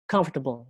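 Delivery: "comfortable" with the weight on COM; first-syllable stress. Shown as a demonstration. Teacher repeating the example, "comfortable" stressed on the first syllable. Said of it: "di silabus pertama".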